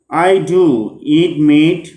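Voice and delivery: "do" stressed strongly, drawn out. Shown as a demonstration. Teacher showing an emphatic auxiliary, stress on "do". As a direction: lean slowly on "do" for emphasis. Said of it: "stressed strongly".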